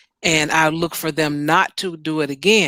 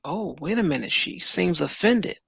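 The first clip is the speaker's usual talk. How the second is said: mild startled aside; 5 dB quieter than usual. Retold or imitated. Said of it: "And then they're like".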